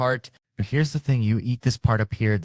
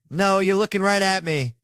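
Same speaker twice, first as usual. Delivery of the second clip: loud, high-pitched escalated protest; escalated outburst; 11 semitones higher, 6 dB louder than usual. Retold or imitated. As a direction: burst out high and loud, imitating his escalation. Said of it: "and it escalated".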